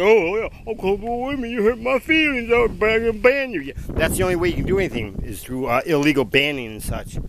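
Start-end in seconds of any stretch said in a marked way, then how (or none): 0.0-3.6 high, whiny mocking voice, pitched way up; mocking whiny activist. Vlogger mimics climate activists he rants at, high whiny mockery. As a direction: sneer at them with a prissy falsetto whine. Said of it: "You think that you".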